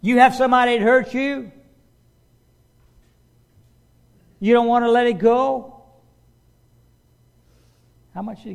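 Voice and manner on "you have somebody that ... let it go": loud, high, preaching at full force; fervent preaching. Acted. Preacher challenging the congregation, fervent loud preaching. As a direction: drive it home to the congregation.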